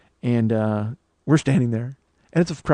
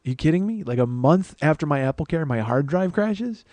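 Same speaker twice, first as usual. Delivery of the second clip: mildly incredulous, pitch jumping up at both ends; retold disbelief; 3 semitones higher than usual. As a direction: protest in mock disbelief, dragging out the last words. Retold protest at expired warranty.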